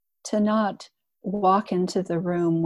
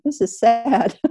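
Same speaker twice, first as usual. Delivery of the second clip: inner protest; 5 semitones higher, 6 dB louder than usual. Retold or imitated.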